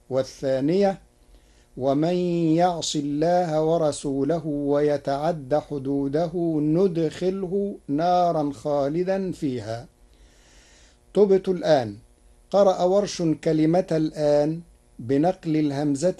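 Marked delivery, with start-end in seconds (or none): 1.8-9.9 measured recitation with n opening ندخله; ندخله with initial noon. Shown as a demonstration. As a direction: read the verb as nudkhilhu. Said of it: "يدخله بالنون".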